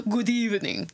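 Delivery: hammed-up cartoon vampire greeting; cartoony vampire voice. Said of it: "mine was way too cartoony".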